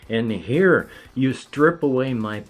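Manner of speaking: building to a loud, high, drawn-out finish; hammed-up outrage; indignant monster. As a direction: protest as a violated monster, swelling to the last word. Monster acts out outrage at intrusion.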